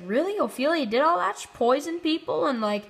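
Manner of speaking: high, stunned disbelief; shocked disbelief. Retold or imitated. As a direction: ask it like you can't believe what you heard. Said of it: "he's kinda shocked by it".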